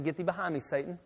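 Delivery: quiet, understated mock rebuke; soft, comic grumble of defiance. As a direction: mutter it under your breath as a mild retort. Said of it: "and I got mad".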